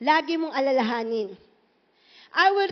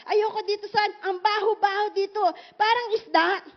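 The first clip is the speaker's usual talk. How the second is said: Jonah whining; 4 semitones higher, 3 dB louder than usual. Retold or imitated. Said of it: "sabi niya".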